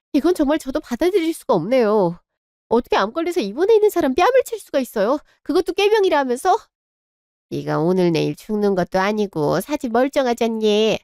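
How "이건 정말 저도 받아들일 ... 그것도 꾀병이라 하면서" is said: rising, fast and high in outrage; daughter-in-law confronting her mother-in-law after the slap; indignant protest. Acted. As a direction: fire it back at her, faster and higher. Daughter-in-law protests being slapped.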